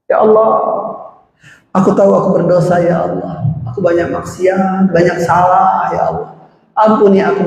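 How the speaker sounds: tearful prayer. Shown as a demonstration. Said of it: "kalau bisa nangis".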